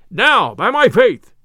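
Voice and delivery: slow, loud exclamation; drawn-out amazed outburst; sheriff's cry. A narrator's reading. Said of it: "cried the sheriff".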